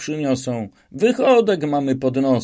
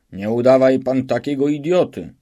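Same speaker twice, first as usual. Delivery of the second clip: bloodthirsty; 3 semitones higher, 5 dB louder than usual. Acted. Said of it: "Krwiożerczo spojrzał na Szwejka i rzekł".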